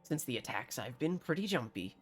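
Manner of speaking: put-on villager with a homemade country accent; bad rustic accent. Jumpy villager explains himself to a stranger, bad rustic accent. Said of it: "bear witness to my bad accent".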